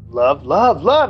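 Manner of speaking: a mock engine throbbing sound; imitated engine noise. Sailor imitating the boat engine, rhythmic mock noise. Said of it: "I just hear, like".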